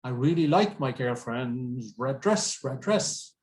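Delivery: "red dress" run together with one D; "red dress" as one joined word; linked consonants. Shown as a demonstration. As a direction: link "red dress" smoothly within the sentence. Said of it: "we link the sounds".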